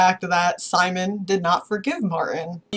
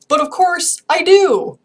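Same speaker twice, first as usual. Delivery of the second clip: emphatic admission; 11 semitones higher, 8 dB louder than usual. Real, not acted. Admits liking him, emphatic.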